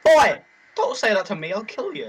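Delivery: fake-furious yell at his friend; mock angry shout. Mock threat after being insulted.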